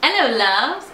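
put-on light English-accented greeting; playful English accent; attempted English accent. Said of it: "you gotta talk in an English accent".

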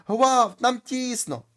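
high, loud cry for help. Acted. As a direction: shout it like a crowded soul in torment. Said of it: "а там знов кричать". (високий гучний крик про поміч)

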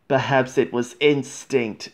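light, bright teasing tone; mildly bright and teasing; brightly. Acted. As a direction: say it cheerfully, with a sly tease. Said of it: "said James brightly".

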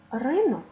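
ринок stressed РИнок; first-syllable stress. Shown as a demonstration. Teacher giving the check word, stress on first syllable. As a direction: hit РИ at the start of ринок. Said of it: "наголос падає на перший склад".

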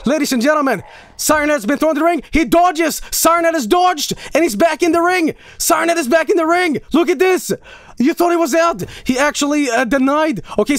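booming ringside play-by-play, building to shouts; over-the-top wrestling commentator; wrestling announcer. Acted. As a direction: call the match like a hyped ring announcer.

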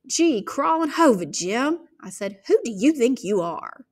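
defiance. Acted. Girl defying her brother.

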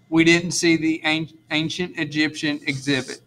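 stumbling on "ancient" and restarting it; tongue-twisted stumble. Real, not acted. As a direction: trip over the first syllable, then recover. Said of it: "That's another tongue twister".

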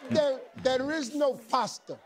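laughing. Real, not acted. Laughing at the mispronunciation.

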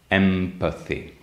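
EMPATHY with both lips closed on the M; bilabial m. Shown as a demonstration. Teacher showing students the nasal in EMPATHY, lips together on M. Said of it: "put the two lips together".

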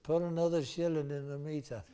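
lightly voiced heckler from the dark; little voice. Little voice comes through the night at the premiere, little voice. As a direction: pipe up as a small voice in a theatre. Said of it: "suddenly this little voice, uh, comes through the night".

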